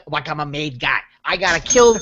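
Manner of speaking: light Long Island wise-guy voice; Joe Pesci. Acted. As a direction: tell it like a made guy. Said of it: "a pretty stellar Joe Pesci thing".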